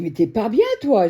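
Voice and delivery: replaying how she scolded him; retold yell. Woman reenacts scolding her husband, loud and high. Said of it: "j'ai gueulé".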